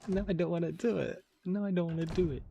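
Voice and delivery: high put-on anime boy voice. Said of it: "Now I'm embarrassed to do it".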